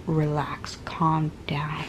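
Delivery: soft whispered calm down. Retold or imitated. Husband soothing her in the hospital, whispered. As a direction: hush her gently in a whisper. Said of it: "he kept saying".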